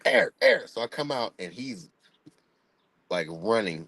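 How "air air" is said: high panicked calling; mock yell of a scared dad, high; yelling a name.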